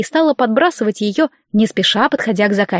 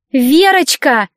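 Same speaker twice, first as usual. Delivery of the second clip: shrill-sounding mock call, higher and louder; grating voice; 5 semitones higher, 5 dB louder, much slower than usual. A narrator's reading. Spoiled client calls the nurse, grating. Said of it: "от противного голоса заказчицы".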